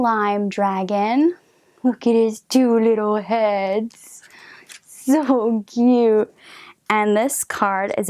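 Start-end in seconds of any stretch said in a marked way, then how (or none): 1.8-6.3 whispered gushing over something cute; cooing whisper. Real, not acted. Cooing at the dragon picture.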